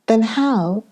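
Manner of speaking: how can you dare, drawn out and lifted; indignant. A narrator's reading. Mother rebuking Peggotty with mild indignation. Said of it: "said my mother".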